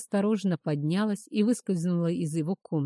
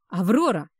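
growled threat; 3 semitones higher, 6 dB louder than usual. A narrator's reading. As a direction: roar it as you chase her. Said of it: "прорычал он".

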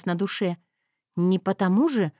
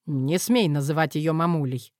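snapped; 5 semitones lower than usual. Acted. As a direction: lower gruff male bark. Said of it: "в один голос с Крыловым рявкнули".

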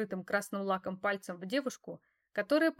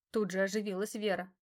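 ordinary delivery

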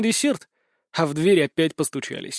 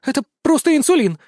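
high, loud horrified gasp; 10 semitones higher, 5 dB louder than usual. A narrator's reading. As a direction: breathe it out in horror. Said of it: "с ужасом выдохнула она". (с ужасом, высоко и громко)

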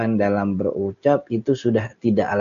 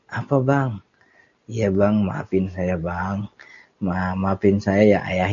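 polite, good-natured reply; 3 semitones lower than usual. Acted. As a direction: answer meekly and respectfully. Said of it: "Biasanya ngomong yang baik".

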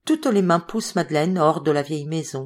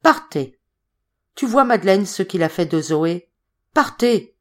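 tags 1; 4 dB louder than usual. Acted. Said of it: "la voix lugubre de Coriolis".

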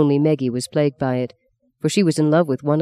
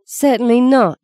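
curt reply; 9 semitones higher, 4 dB louder than usual. A narrator's reading. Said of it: "she answered without turning".

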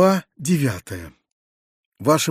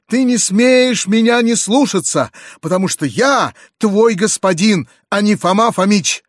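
angry master; 6 semitones higher, 4 dB louder than usual. Acted. Uncle scolding Gavrila, indignant and loud. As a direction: assert authority hotly. Uncle berating his servant.

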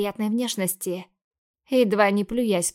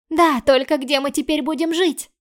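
put-on higher and louder, anxious girl; frightened little sister; 6 semitones higher, 5 dB louder than usual. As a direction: pepper her sister with scared questions. Sister despairs.

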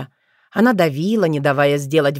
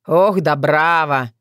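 slow mocking laugh through her name; slower than usual. A narrator's reading. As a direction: chuckle her name condescendingly. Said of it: "засмеялся Бранибор".

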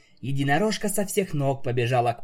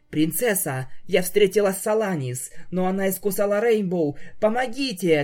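rushed, rising panic, louder toward the end; frantic rattling plea; 6 semitones higher, 3 dB louder than usual. Acted. Unicorn rushing to the princess, frantic plea for help. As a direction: blurt it all out and beg for help. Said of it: "тараторила хозяйка".

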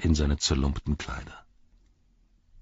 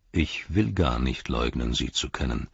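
calm Gandalf; 5 semitones lower than usual. Acted. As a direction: answer calmly, unshaken. Gandalf answers the envoy.

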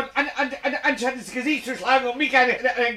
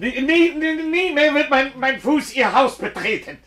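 indignant; 4 semitones higher, 3 dB louder than usual. Acted. Indignant vow never to return.

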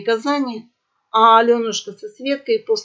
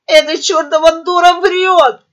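high, loud shriek of protest; indignant squeal; 7 semitones higher, 8 dB louder than usual. A narrator's reading. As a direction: squeal an angry denial. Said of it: "взвизгнула орлица". (возмущённый визг)

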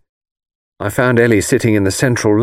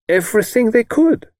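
bright, much higher cheerful reply; 12 semitones higher than usual. Acted. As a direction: toss it off gaily. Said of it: "said Greta cheerfully".

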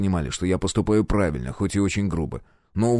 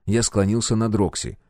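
ordinary delivery

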